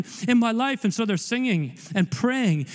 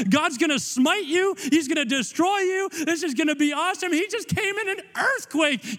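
gleeful freed prisoner; 5 semitones higher than usual. Pretend. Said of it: "I'm like".

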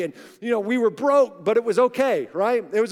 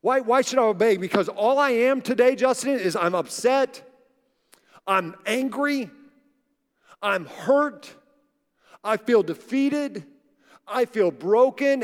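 louder, pleading complaint, slowing as it goes; voicing hurt frustration; 4 dB louder than usual. Preacher voices a discouraged listener questioning God, hurt and louder. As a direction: give the aggrieved believer's protest, rising and then dragging. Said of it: "and you feel like".

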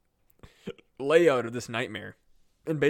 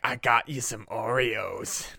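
mom's voice; slower than usual. Retold or imitated. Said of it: "she's like".

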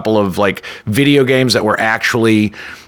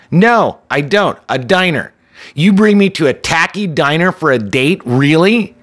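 disdainful; 5 semitones higher than usual. Retold or imitated. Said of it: "really looked visibly annoyed".

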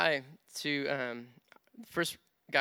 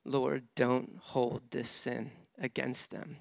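gentle forgiving prayer; 2 semitones lower, slower than usual. Retold or imitated. Dying man's forgiving prayer.

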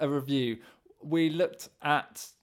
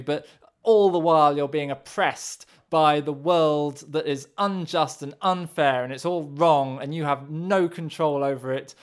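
cartoon villain; 2 semitones higher, 4 dB louder than usual. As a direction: gloat like a cartoon baddie. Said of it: "do a cartoon villain impression of the listener".

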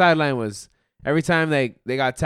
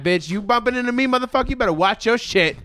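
imitating angry player; 10 semitones higher than usual. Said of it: "They were like".

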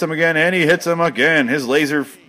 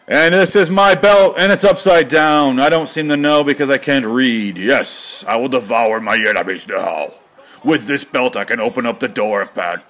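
dopey wrestler voice. Pretend. Voicing wrestler with belt.

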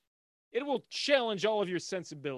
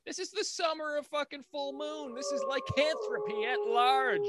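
high, loud announcer shout; hyped announcer; 10 semitones higher, 4 dB louder than usual. Pretend. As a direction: proclaim it like a trailer.

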